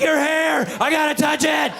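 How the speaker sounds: high, eager gushing voice; high breathless eagerness; overexcited. Retold or imitated. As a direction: gush like a kid who must touch it. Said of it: "It's like".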